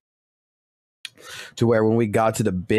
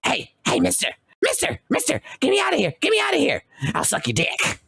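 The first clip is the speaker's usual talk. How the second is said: high, strained, raspy squeal; urgent high-pitched begging in a cracked whispery rasp; caged character pleading; faster than usual. Retold or imitated. Caged prisoner begs a passer-by to free him, high desperate rasp. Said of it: "fucking saying straight up to him".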